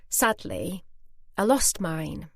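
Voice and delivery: a touch of sorrow, with pauses; understated sadness. Retold or imitated. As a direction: retell it simply, halting before the loss. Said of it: "went a bit watery and a little bit shaky".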